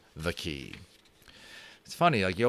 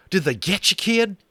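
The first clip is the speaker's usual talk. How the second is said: high, louder worried cowboy; anxious cowboy; 11 semitones higher, 5 dB louder than usual. Acted. Boone anxiously asks Omri if he's hurt, high cowboy. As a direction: fret over the kid in cowboy twang. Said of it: "he asked Omri anxiously".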